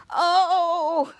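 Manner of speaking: drawn-out mock groan of pain; put-on "oh" of bellyache; acted pained groan. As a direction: groan as if your stomach aches. Stomach pain, retold cartoon-style.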